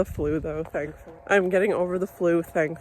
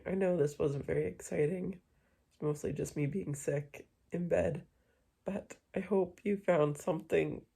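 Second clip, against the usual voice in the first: sleepy bedtime quiet; 9 dB quieter than usual. Real, not acted. Tired vlogger ending the day in bed, quietly. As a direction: talk softly, as from bed before sleep.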